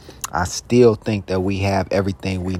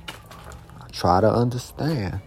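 "I try to understand" said slowly and much softer; slow quiet resolve; 6 dB quieter, slower than usual. Real, not acted. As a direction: ease down, almost to himself. Slow soft repeat of resolve.

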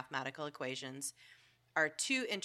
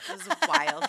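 much higher and louder burst of amazement; amazed; 12 semitones higher, 10 dB louder than usual. Real, not acted. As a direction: exclaim it, genuinely blown away. Amazed at crop circle photo.

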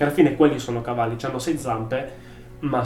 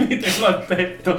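risata acuta e divertita; ridendo; 9 semitones higher, 5 dB louder than usual. Real, not acted. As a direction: ride della propria battuta. Laughs at own joke. (ridendo forte)

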